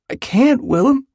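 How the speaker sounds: very high, distressed voice; agonised plea. A narrator's reading. Jude cannot tell his friend, agonised pleading. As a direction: beg off helplessly. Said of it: "Jude is in agony".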